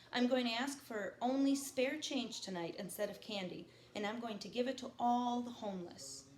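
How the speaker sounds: reading a novel aloud to the class; lightly paced read-aloud, each line set down; reading a novel to students; story narration. A narrator's reading. Teacher reads novel aloud to class.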